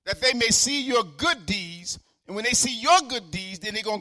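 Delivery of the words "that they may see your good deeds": slow, declaimed scripture quote; quoting scripture. Acted. Preacher quoting Jesus to the church, slow and proclaimed. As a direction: proclaim the verse slowly. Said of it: "He says".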